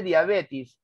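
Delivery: "diabetis" terminando en -is, algo lento; barbarismo diabetis. Shown as a demonstration. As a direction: di "diabetis" con i final como error. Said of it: "en vez de decir diabetes, dice diabetis". ("diabetis" con terminación -is en vez de -es)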